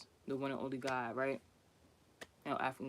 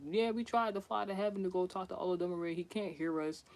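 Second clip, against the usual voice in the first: lightly voiced group reply, a bit higher; acted reply; 3 semitones higher, 4 dB quieter than usual. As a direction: retell their answer on a raised, sustained pitch. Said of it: "He was like".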